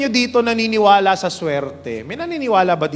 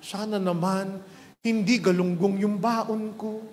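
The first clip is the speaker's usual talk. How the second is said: softer, pleading little prayer; nervous prayer; 6 dB quieter, slower than usual. Acted. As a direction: pray quietly, dreading the lunchbox. Nervous prayer before opening.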